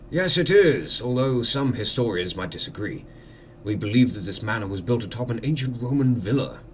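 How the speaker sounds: lightly voiced courteous lord; manor host. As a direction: welcome a guest with formal hospitality.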